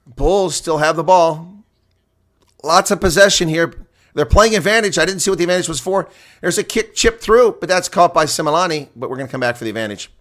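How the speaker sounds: quick live commentary on the advantage play. Acted. Streamer calls the Bulls possession, live play-by-play. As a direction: keep the call running.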